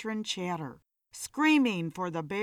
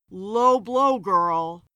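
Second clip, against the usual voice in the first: mock hurt; 7 dB louder, much slower than usual. A narrator's reading. Stung retort.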